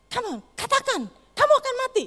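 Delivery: high, loud mocking demon voice; menacing taunt. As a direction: goad him toward death. (suara iblis mengejek dengan keras)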